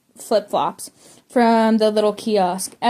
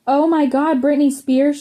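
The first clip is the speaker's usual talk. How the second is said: higher, excited Midwestern fan squeal; mock Midwestern yell; 5 semitones higher than usual. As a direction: gush like a starstruck Midwestern fan. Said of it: "she yelled in the Midwestern accent".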